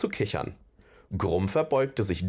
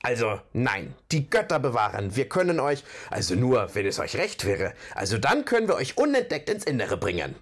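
stammelnd. Acted. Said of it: "stammelte Bulgur".

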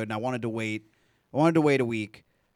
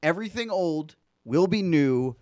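mock ominous; 3 semitones higher than usual.

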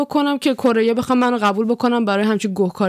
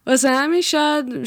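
higher, laughing through the words; 5 semitones higher than usual. Real, not acted. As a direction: laugh as you repeat it. Repeats phrase while laughing. (با خنده)

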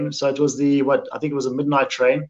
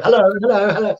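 exaggerated greeting; 5 semitones higher than usual. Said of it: "You don't have to go".

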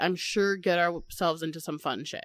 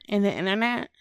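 Midwestern accent. Shown as a demonstration. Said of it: "It's really bad".

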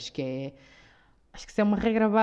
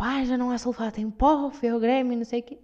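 higher mum impression; mock annoyed mum; 5 semitones higher than usual. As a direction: imitate the mother grumbling. Mother complaining, voiced. (imitação da mãe revoltada, mais aguda)

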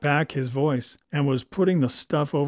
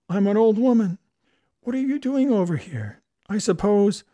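flustered delight; 7 semitones higher, 4 dB louder than usual. A narrator's reading. Julia flustered, giggling at reunion.

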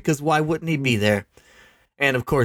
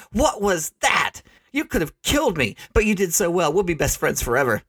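giddy Kim; 5 semitones higher than usual. Acted. Kim gushing after being caught.

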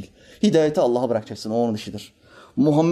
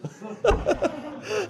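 high laugh; 5 dB quieter than usual. Real, not acted. Preacher laughs at the story.

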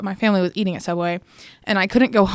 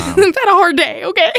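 higher, whiny mock complaint; 9 semitones higher, 5 dB louder than usual. Telling mom about her hard day, hammed-up whine. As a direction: whine it like a sulking kid.

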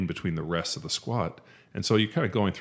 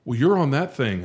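mock incredulous reply; 8 semitones higher, 6 dB louder than usual. Voices the other gym-goer's reply.

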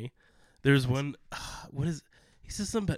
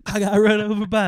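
quoting Jean Ralphio; 8 semitones higher, 14 dB louder than usual. Retold or imitated. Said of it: "What is the thing he says".

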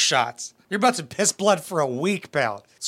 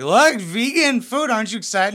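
imitating an excited girlfriend; 4 semitones higher than usual. Imagined girlfriend showing off vegan food, mock-excited. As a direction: play the eager girlfriend, pitched up at the start. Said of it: "She's like".

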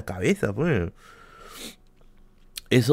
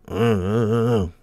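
wordless mumble mimicking unheard speech; muffled speech imitation; slower than usual. Taxi driver heard through earphones, imitated mumble. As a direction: imitate a driver you can't make out. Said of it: "pero como yo estaba con audífonos no escuchaba".

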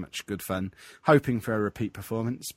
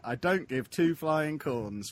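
slow catchphrase; 5 semitones higher, slower than usual. Retold or imitated. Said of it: "I'm getting that as a t-shirt".

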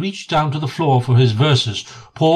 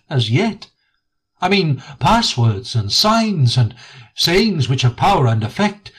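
put-on a wise old friend explaining the rules; Rat, kindly but firm; 2 semitones higher than usual. Rat gently lecturing frightened Mole in the hollow, kindly firm.

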